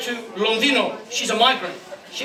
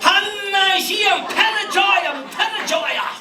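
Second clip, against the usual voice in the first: excited exclaim; 7 semitones higher, slower than usual. Real, not acted. Exclaiming at the gift.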